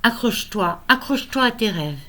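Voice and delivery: measured poem recital, lifted phrase openings, frequent pauses; poem reading. Acted. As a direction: read your own poem aloud, line by line. Lit son poème. (lecture de poème, posée et expressive)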